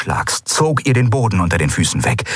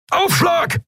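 sudden much higher yell of alarm; bellowed warning. Acted. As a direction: brace them for impact. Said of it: "brüllte Keru".

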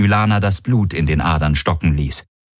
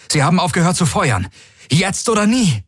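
rising, high-pitched rallying cry; urgent broadcast; 10 semitones higher than usual. Acted. Garland urges the fleet over all frequencies, high and urgent. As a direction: push the fleet to seize the moment. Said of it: "sendete auf allen Frequenzen".

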